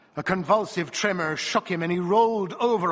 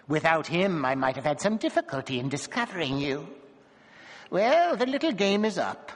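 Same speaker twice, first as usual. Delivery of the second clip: sneering dwarf; 2 semitones higher than usual. A narrator's reading. Dwarf taunting wife and lover.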